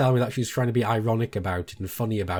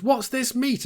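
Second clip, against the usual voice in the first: mimicking the wife; 14 semitones higher, slower than usual. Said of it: "she goes".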